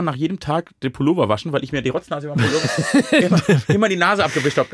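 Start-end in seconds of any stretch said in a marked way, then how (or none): 2.3-4.7 laughing while talking. Real, not acted. Funny childhood snot story.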